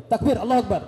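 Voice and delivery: seruan takbir lantang ke jamaah. Real, not acted. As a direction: serukan takbir agar jamaah menyahut. (penceramah mengajak jamaah bertakbir, berseru lantang)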